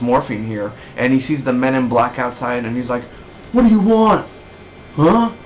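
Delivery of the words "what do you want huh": high cracked yell of despair; breaking down yell. Retold or imitated. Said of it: "He, like, he, like, breaks down".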